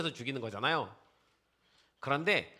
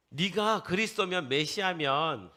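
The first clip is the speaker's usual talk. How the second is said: mocking taunt; 5 semitones higher, 5 dB louder than usual. Robber on the cross jeers at Jesus, mocking. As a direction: taunt him, stretching the ends. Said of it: "라고 조롱하기 시작합니다".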